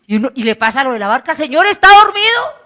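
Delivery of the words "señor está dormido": high, loud alarmed call; mock panicked cry. Frightened disciples call to the sleeping Lord, high alarmed cry.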